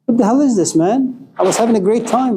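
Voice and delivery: lightly voiced, put-out chicken; indignant chicken. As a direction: complain to the cook as a startled chicken. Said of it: "the chicken looks at the cook and says".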